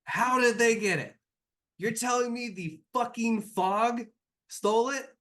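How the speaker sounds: high, loud incredulous shout; outraged disbelief. Acted. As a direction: demand it in shocked outrage.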